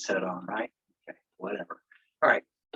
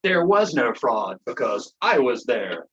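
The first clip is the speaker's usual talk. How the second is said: mocking clown; 4 dB louder than usual. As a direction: ham up a smug official dismissing fraud. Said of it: "their clowns running around saying".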